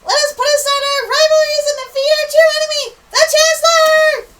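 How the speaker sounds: rally your comrades like a grand hero; heroic Magnus voice. Acted. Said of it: "it is I, Magnus".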